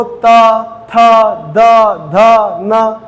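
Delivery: त थ द ध न spoken one by one with the tongue against the teeth; each dental letter separated for the class; demonstrating dental sounds. Shown as a demonstration. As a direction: sound out त, थ, द, ध, न with pauses between them. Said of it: "आप देखो".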